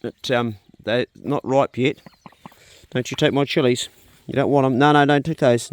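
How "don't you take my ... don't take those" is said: louder, firm telling-off; shooing a duck. Real, not acted. Gardener shooing Super Duck off his chilies, loud and firm. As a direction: shoo the duck away from your chilies.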